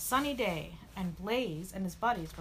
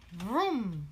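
louder, drawn engine noise; imitated engine vroom; 5 dB louder than usual. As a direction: make a storybook revving sound.

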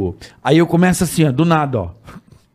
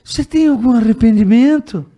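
imitated interviewer question; 7 semitones higher, 4 dB louder than usual. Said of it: "me manda a seguinte pergunta".

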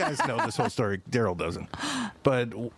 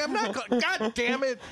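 mock exasperation; 8 semitones higher than usual. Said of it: "And I'm like".

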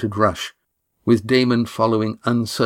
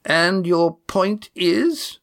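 slow, higher demanding challenge; 9 semitones higher, much slower than usual. Acted. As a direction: press her for an answer. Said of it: "demanded Janice".

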